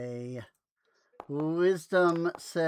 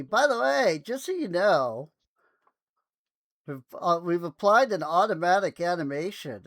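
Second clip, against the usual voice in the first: mock announcement, pitched up at first; imitated pop-up message; 3 semitones higher, 5 dB louder than usual. Game master grumbles about a pop-up, mimicking its message. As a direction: mimic a pestering notification, higher and louder at the start. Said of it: "a freaking pop-up comes telling me".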